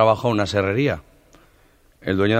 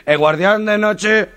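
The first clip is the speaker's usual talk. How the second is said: much higher and louder, slow, dragged out; stuttering repeat; 11 semitones higher, 6 dB louder, much slower than usual. Retold or imitated. Stutterer echoing the job offer, stammering high and slow. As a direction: stretch and stumble through the words. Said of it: "el tartamudo".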